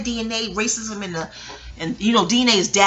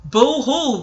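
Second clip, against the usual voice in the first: exaggerated spoken boo-hoo, higher and louder; mock crying; 5 semitones higher, 5 dB louder than usual. Telling how the documentary made her cry, mock wail. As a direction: playfully act out crying like a baby. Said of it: "I cried like a baby".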